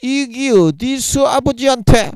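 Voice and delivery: put-on high, slow, angry scolding older brother; Gyeongsang-dialect scolding. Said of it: "성령님이 경상도 말로". (경상도 사투리로 호통치는 형님 목소리)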